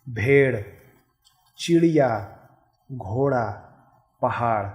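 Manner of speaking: "भेड़" to "पहाड़" each ending in a clear flapped ड़; "घोड़ा" with a tongue-tip flap, not a hard ड; careful pronunciation demo. Shown as a demonstration. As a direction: model each word for the class, crisp flap. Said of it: "उच्चारण पे ध्यान दीजिए".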